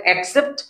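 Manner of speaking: অ্যাকসেপ্ট said as ek-sept with a clear e; accept demo. Shown as a demonstration. Teacher shows students অ্যাকসেপ্ট with e. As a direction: open e at the start of অ্যাকসেপ্ট. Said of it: "গ্রহণ করার অর্থে বলি তাহলে হবে".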